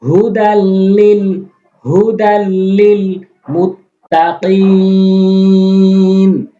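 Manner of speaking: very slow chant, মুত্তাকিন held long; slow Quran recitation. Shown as a demonstration. Teacher recites the verse for students, slow chant. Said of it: "ফি".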